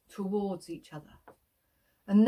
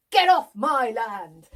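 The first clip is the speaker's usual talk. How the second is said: demo farmer shout; 5 dB louder, slower than usual. Shown as a demonstration. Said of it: "we're gonna go".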